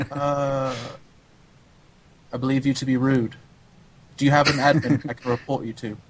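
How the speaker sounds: imitated humourless European accent; stern European accent. Coach imitating an offended European wanting an admin, accented. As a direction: complain formally in a European accent. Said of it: "That's a pretty good accent".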